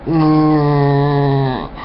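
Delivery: dopey droning voice with long hummed moans; mock brain-dead zombie. Speaker mocking ignorant people as humming, brain-dead zombies. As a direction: drone it out like a mindless zombie. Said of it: "That's a good look right there".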